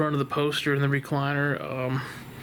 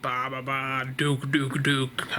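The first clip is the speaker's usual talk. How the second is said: creepy Babadook call; 4 semitones lower, slower than usual. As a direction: croak it low like the monster's call. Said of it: "it had this call and it was like".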